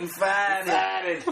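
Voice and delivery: farted with a Boston drop of the r, fahdid; light South Boston accent on farted; brother's Boston way of saying farted. Retold or imitated. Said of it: "That's how he says it".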